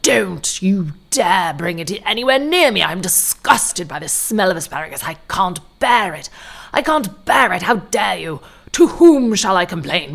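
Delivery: outraged mock whine of an old man, pitch jumping up; angry passenger throwing a mock fit over the meal; imitating a tantrum. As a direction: ham up a passenger's meltdown over dinner. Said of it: "this man had a tantrum".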